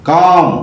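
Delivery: "కామ్" with the long vowel straight into M; silent L. Shown as a demonstration. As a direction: say "కామ్" with no L before the M. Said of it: "ఇక్కడ ఎల్ పలకలేదు".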